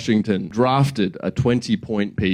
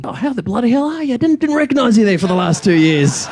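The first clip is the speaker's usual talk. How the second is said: much higher, fast, hammed-up Aussie cheer; Aussie greeting; 11 semitones higher than usual. Comedian voicing Australia greeting Palestine, hammed-up Aussie cheer. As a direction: greet them like a jolly bloke at the pub.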